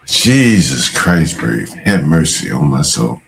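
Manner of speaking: mock dismay. Aghast at a photo.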